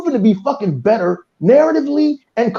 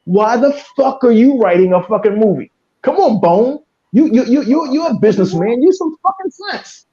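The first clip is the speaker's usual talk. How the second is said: raised, higher exasperated rant; angry yelling; 4 semitones higher, 3 dB louder than usual. Real, not acted. Fan yelling about writer-bosses, angry. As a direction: bark it at the businessman. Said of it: "I apologize for yelling".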